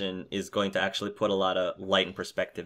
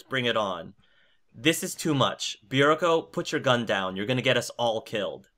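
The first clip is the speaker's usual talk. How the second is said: acted reading of a tense standoff, higher-pitched; reading dramatic dialogue; 3 semitones higher than usual. Host reads translated Russian dialogue to the podcast, lightly acted. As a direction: read the frightened group's lines with urgency. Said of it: "hard for me to talk without sort of using a Russian accent".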